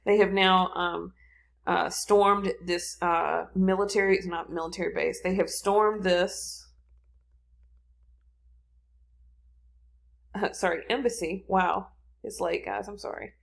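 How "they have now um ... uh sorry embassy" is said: halting brain freeze, groping for words. Real, not acted. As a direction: brain freeze, searching for the word. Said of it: "I have a brain freeze here".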